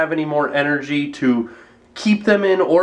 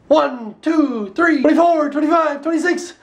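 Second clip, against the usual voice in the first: rising count; 9 semitones higher than usual. Pretend. Counting jumps at viewer.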